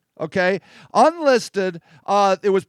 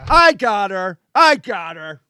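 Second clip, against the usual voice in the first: macho cop imitation; 4 semitones lower than usual. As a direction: lower mock macho cop. Mocks male cop taking over.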